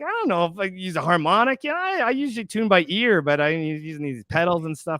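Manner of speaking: high flustered excuse. Retold or imitated. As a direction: babble it, panicked. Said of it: "I'm like".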